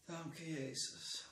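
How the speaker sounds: whispered prayer, barely breathed; fluisterend gebed. Real, not acted. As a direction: breathe his name in a hushed prayer. Persoonlijk gebed tot Jezus. (Jezus fluisterend aanroepen)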